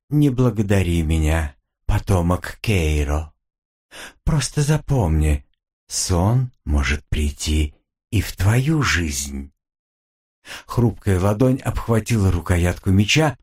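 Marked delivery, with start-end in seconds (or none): 0.1-9.5 low, slow ominous demon. Acted. Demon gives a warning. (низкое медленное предупреждение демона)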